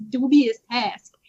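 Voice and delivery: odd emphasis on "dubious task"; "dubious task" stressed in a funny way; oddly emphasized dubious task. Real, not acted. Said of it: "the way you said it sounded funny".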